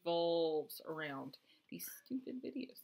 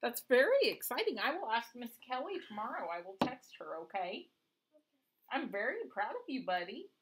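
proud parent; 4 semitones higher than usual. Real, not acted. Mother praises her young child.

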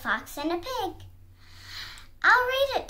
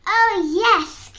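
loud, higher storybook exclamation; gleeful cry; 5 semitones higher, 8 dB louder than usual. A narrator's reading. Fox answering the piglet at the door, crying out. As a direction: cry it out in triumph. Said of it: "cried the fox".

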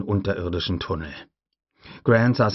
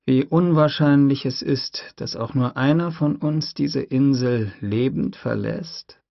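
slow, raised, doubting question; Malcolm voiced; 6 semitones higher than usual. Malcolm warns Hammond, slowly and doubtfully. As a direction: spell out the bleak odds slowly. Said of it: "fragte er".

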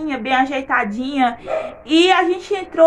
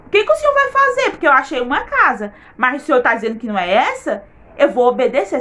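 retold childlike crying; 3 semitones higher than usual. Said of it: "aquele choro de criança".

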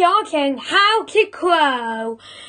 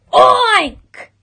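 high, loud single oink; pig oink; 6 semitones higher, 5 dB louder than usual. A narrator's reading. Pigs showing cockerel their own sound, high oink. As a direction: give a sharp, high pig noise.

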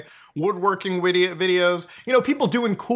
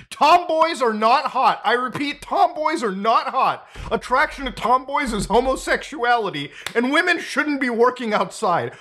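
mock proclamation; 6 semitones higher than usual. Reading a scolding post aloud.

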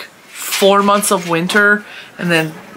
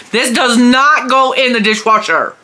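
mock scolding; 7 semitones higher, 4 dB louder than usual. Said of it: "I yelled at him later".

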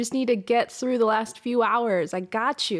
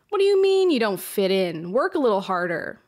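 harsh inner critic. Retold or imitated. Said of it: "here's my negative self-talk coming in".

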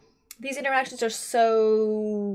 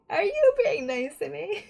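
mock suspicious; 6 semitones higher than usual. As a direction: ham up the suspicion. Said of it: "That dynamic of just like".

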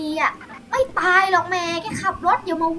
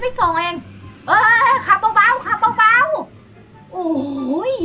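laut, gedehnt, ängstlich; panisch rufend; 6 semitones higher, 10 dB louder, much slower than usual. Acted. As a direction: schrei vor Angst ums Tempo. Panicky passenger in fast car.

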